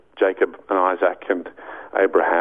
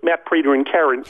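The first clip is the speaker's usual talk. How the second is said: higher cartoon frog reporter; Kermit voice; 6 semitones higher than usual. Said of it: "and Kermit".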